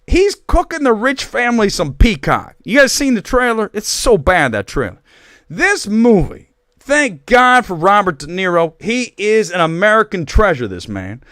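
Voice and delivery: high, hammed-up, wandering Italian accent; muddled Italian accent. Host praising an actor in muddled fake Italian accent. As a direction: push a bad Italian accent until it wanders. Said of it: "I don't even know what accent this is".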